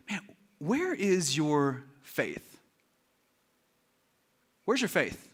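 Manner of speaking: low, soft, very slow reproach; calm questioning. Acted. Jesus looking at the frightened disciples, calm questioning. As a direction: ask gently, with long weighty pauses.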